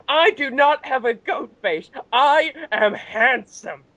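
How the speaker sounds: high, slow, offended pride; insulted wrestler defending his looks, high and slow; Daniel Bryan. Retold or imitated. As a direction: draw out each word like a hurt ego. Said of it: "it's like".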